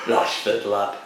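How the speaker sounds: broad Barnsley lad calling a teammate over; mock Yorkshire coach voice, a light touch; lightly done Barnsley accent. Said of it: "you just did him from Barnsley".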